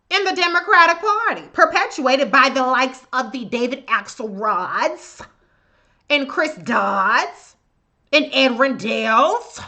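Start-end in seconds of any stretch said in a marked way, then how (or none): 1.5-9.6 slow, sneering contempt on each name; drawn-out contemptuous list of names. Real, not acted. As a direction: spit the names out with disgust. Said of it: "is there enough contempt in my voice?".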